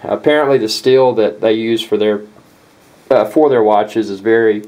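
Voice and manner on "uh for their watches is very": hiccups. Real, not acted. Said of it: "excuse me, I got the hiccups".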